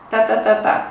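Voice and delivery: tá, tá, tá, tá tapped with weight on each beat; final syllable stress. Shown as a demonstration. Teacher tapping out the Maranhão rhythm: tá, tá, tá, tá. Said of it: "ênfase na última sílaba".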